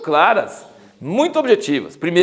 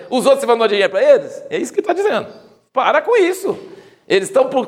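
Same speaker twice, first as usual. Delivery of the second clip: much higher and louder, laughing in disbelief; Paul scolding the church, worked up; exasperated apostle, high and loud; indignant Paul; 9 semitones higher, 3 dB louder than usual. Retold or imitated. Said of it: "E aí ele fala assim".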